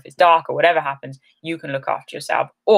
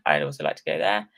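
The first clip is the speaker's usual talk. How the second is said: yawning; 11 semitones lower, 5 dB quieter than usual. Real, not acted. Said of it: "Why are yawns contagious?".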